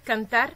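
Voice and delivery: "cantar" stressed on the final "tar"; stress on last syllable. Shown as a demonstration. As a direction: put the weight on "tar" in "cantar". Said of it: "dènye silab la". (aksan sou dènye silab "cantar")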